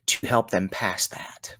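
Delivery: slow, hushed whisper; a slow, sincere whisper. Real, not acted. Soft close to a sincere vow.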